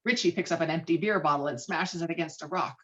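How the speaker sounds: ordinary talk, nothing marked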